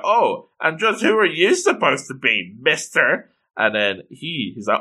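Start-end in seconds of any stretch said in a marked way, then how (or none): 0.0-3.3 slightly raised, haughty challenge; high and mighty. Retold or imitated. High and mighty girl questioning the stranger, haughty. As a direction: imitate a snooty girl sizing someone up. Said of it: "one of the high and mighty girls is like".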